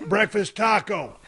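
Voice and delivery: slow, careful words into the speaker; slow, precise drive-thru order; carefully enunciated order. Retold or imitated. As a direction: spell out each word of the order. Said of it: "was enunciate my words".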